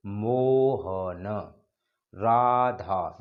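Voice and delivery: मोहन and राधा called out slowly, last vowels held long; names drawn out in a call. Shown as a demonstration. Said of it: "किसी को पुकारने में किया जाता है".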